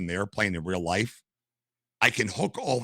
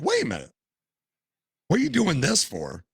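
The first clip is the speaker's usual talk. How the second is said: higher, incredulous double take; retold surprise; 9 semitones higher than usual. Telling the flight attendant, in retold surprised disbelief. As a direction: sound like you just can't believe it. Learning ex-cops work as attendants.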